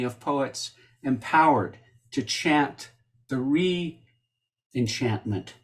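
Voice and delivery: measured, emphatic read-aloud with pauses between phrases; deliberate literary introduction; formal blurb reading. Real, not acted. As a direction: read out a tribute to a poet, phrase by phrase. Reads blurb aloud introducing poet.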